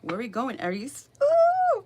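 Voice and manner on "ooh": excited ooh. Real, not acted. Excited reaction to the card.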